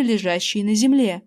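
usual speaking voice

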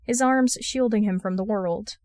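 ordinary delivery, nothing marked

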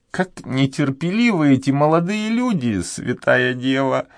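put-on a pious old maid clucking at youth; sighing old woman. A narrator's reading. Old duenna sighing over the impatient young man, high. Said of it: "вздохнула старуха".

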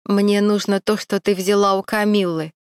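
a stranger speaking sharply, "ты" stressed; lightly voiced menacing stranger. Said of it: "резко проговорил незнакомец".

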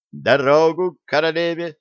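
high, gleeful proclamation; joyful exclamation. A narrator's reading. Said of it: "радостно воскликнула Алиса".

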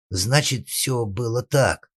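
put-on high, drawn-out boyish stalling; timid babble. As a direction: stammer out an excuse to Father. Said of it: "лепетал мальчишка".

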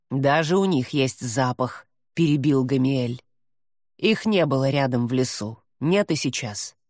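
low growling demon voice. Acted. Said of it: "Рычащий голос демона".

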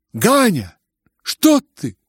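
high, loud frightened call; alarmed cry. Acted. Mother to her son, alarmed cry. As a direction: rush to stop him. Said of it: "крикнула Нина Александровна".

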